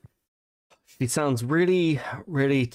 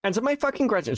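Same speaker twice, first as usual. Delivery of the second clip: high-pitched Valley Girl mimicry; mock her in a Valley Girl whine; 11 semitones higher, faster than usual. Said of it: "the Valley Girl voice".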